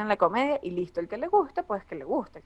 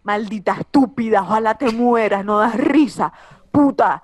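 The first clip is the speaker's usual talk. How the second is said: mock troll insult; 7 dB louder than usual. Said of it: "Es y que".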